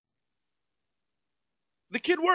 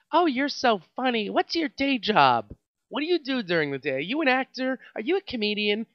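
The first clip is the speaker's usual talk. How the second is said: mocking customer; 5 semitones higher than usual. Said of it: "I got asked".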